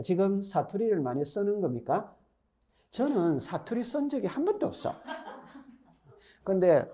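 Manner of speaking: ordinary talk, nothing marked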